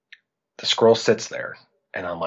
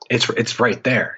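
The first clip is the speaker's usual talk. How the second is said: patient insistence; 4 semitones higher than usual. Retold or imitated. Dad pointing out squirrel, first tries.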